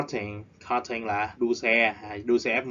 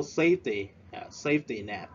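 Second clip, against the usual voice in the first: SAFEty, first syllable raised; stress on safety. Shown as a demonstration. Teacher repeating for class: first syllable stressed. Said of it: "We stress at the first syllable".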